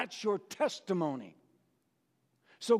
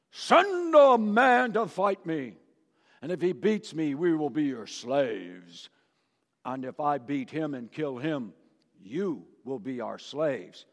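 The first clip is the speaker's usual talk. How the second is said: Goliath taunting; 4 semitones lower than usual. Acted. Goliath's challenge voiced by preacher.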